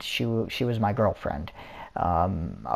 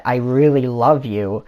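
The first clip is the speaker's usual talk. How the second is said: slow, loud mock declaration of love; imitating an overeager admirer, emphatically; imitated love confession; 2 semitones higher, 5 dB louder than usual. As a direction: draw out an insistent, smitten confession. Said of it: "that's exactly how she said it".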